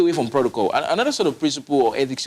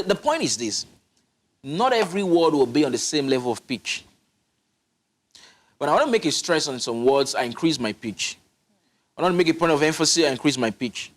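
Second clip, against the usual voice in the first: ordinary delivery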